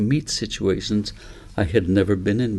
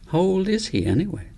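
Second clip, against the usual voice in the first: a higher, lightly voiced five-year-old asking; a small girl's wondering question, pitched up; curious little girl; 9 semitones higher than usual. A narrator's reading. Little Cornelia asks David.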